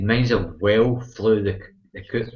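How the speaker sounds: slow, deliberate repeat. Real, not acted. Repeating himself slowly to a friend who missed it. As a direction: spell it out again so he catches it. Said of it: "now I can hear you".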